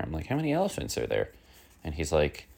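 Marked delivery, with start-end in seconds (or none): 0.3-1.3 much higher and faster, exasperated; exasperated repeat. Retold or imitated. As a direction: fire the question again, fed up and disbelieving. Repeats question to a dumb reply.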